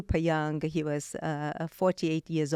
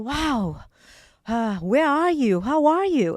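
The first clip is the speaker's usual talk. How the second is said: retold panicked call; 8 semitones higher, 7 dB louder, faster than usual. Frantic call to missing husband.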